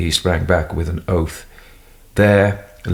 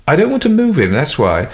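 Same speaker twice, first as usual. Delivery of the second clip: louder, higher retort; firm retort; 9 semitones higher, 4 dB louder than usual. Acted. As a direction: answer firmly. Doctor firm reply.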